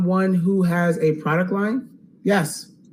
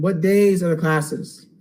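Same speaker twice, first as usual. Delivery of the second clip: strained, tired losing voice. Real, not acted. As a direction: push through a voice that's going. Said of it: "I'm losing my voice".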